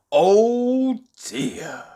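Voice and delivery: lightly voiced gentle old tramp; soothing, concerned; kindly tramp. Tramp finding Mister Jelly fainted, gently concerned.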